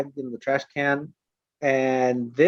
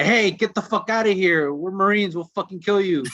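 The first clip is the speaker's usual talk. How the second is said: mock tough-guy yell, pitched up; retold yell; 5 semitones higher than usual. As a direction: bark it like a cocky Marine. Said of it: "he yells at this fucking guy".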